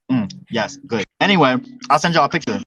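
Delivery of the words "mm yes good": savoring a bite, mouth full. Real, not acted. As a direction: hum of enjoyment while chewing. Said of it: "I'm eating some chicken I cooked".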